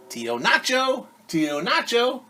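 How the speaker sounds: high call from outside; calling through the door. A narrator's reading. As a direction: call him from the doorway. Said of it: "llamó alguien a la puerta".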